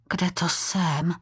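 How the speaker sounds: breathless, wheezing whisper. A narrator's reading. Lost boy wheezing to a warrior, breathless whisper. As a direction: gasp the question out in a whisper. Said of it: "zasýpal Martin".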